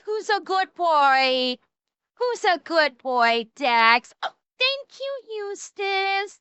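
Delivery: slow, sing-song voice for a pet. Real, not acted. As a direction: coo at the dog like a puppy. Talking to her dog Dax.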